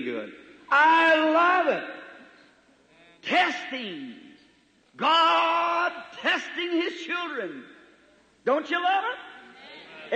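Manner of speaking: slow, high, choked with feeling; moved almost to tears over God's testing; overcome with emotion. Real, not acted. Preacher pausing, overwhelmed, to his congregation. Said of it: "Excuse me, I'm not emotional".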